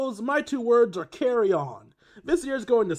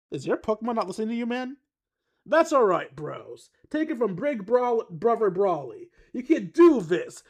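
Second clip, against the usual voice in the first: put-on loud, higher gruff surfer boy accent, pumped pep talk; Brawly surfer accent; 4 semitones higher, 5 dB louder than usual. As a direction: hype up the bros like a gruff surfer dude. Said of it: "horrible attempt at a gruff surfer boy accent".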